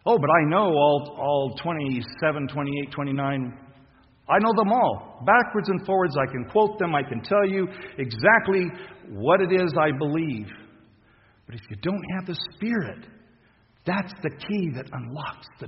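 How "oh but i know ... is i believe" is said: smug boasting. Pretend. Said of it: "mocking a know-it-all believer".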